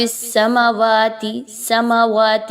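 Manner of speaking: سماوات with a short میم and an overlong واو; common mistake. Shown as a demonstration. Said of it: "اکثر اوقات یہاں پہ لوگ کیا غلطی کر رہے ہوتے ہیں".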